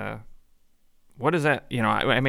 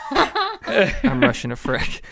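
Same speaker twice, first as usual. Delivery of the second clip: high, slow, laughing repeat; laughing, drawn out; 8 semitones higher, 3 dB louder, much slower than usual. Acted. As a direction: laugh through it, stretched out.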